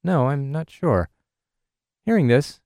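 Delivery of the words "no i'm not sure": slow, unsure, fading out at the end; a nervous traveler letting the words die away; mildly worried reply, voice trailing off. Retold or imitated. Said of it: "in a worried voice that trailed off at the end".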